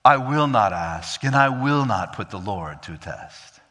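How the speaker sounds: mock-humble, pious refusal; a hint of false piety; implied false piety. Shown as a demonstration. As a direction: read it with a fake humble tone. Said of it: "The, the implied tone of this".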